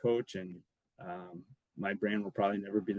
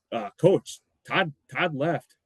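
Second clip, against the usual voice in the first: sheepish teammate; 5 semitones higher, 5 dB louder, slower than usual. Retold or imitated. Teammate tells coach prank news.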